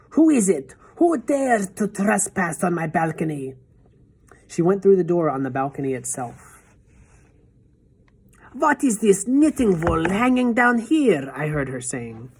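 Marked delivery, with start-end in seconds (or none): 0.1-3.6 a higher, slow, imperious witch voice; menacing witch. A narrator's reading. Witch demands who trespasses on her balcony, menacing. 8.5-11.3 a higher, slow, imperious witch voice; menacing witch. A narrator's reading. Witch demands who trespasses on her balcony, menacing.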